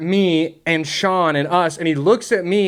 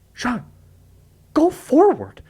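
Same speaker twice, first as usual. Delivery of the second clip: urgent call; 11 semitones higher, slower than usual. Retold or imitated. Urging driver at checkpoint.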